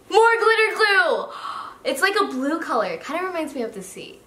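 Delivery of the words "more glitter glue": high, stretched-out excited exclamation; delighted high squeal; thrilled. Real, not acted. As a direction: cry out slowly and high with delight. Thrilled at another find.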